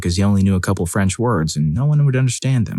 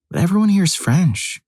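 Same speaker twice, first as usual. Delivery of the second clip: put-on arguing girlfriend; 10 semitones higher than usual. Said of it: "she argued".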